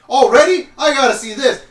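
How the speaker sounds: lightly voiced excited lawman; eager sheriff. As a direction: sheriff drops everything to go watch.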